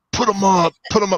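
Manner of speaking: mock tipsy, half-cut drunk delivery. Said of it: "I think he was drunk or something".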